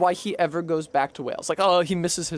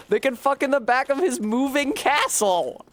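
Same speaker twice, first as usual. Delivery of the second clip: silly voice; 9 semitones higher than usual. Acted. Joking in a silly voice.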